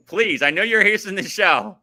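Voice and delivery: rally him like a coach at the goal line; impassioned rant. Real, not acted. Fan ranting at his favorite wrestler, impassioned begging.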